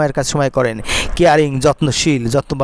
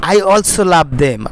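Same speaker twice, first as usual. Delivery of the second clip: slow dictation; much slower than usual. Shown as a demonstration. Teacher dictates model sentence.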